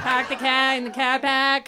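broad put-on Boston accent; hammed-up New England accent; Boston accent impression. Shown as a demonstration. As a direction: repeat it in a mock Boston accent. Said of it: "doing ten minutes of impressions".

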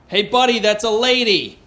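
mock threatening yell. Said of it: "I yell out the most threatening thing".

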